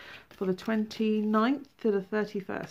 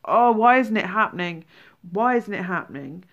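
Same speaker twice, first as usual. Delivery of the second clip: voicing a frustrated wail of why; mock exasperation; 6 dB louder than usual. Reader voicing a client desperate to manifest, mildly exasperated. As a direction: act out someone fed up with waiting.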